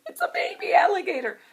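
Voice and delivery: whisper. Acted. Reader reveals secret to children.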